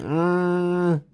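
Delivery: long held mock hum; imitated steady drawn-out hum. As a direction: hold one sustained hum. Imitated drawn-out Undertaker noise.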